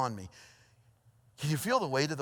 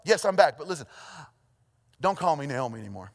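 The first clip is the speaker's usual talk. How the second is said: Naomi. Acted. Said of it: "Naomi says something like this".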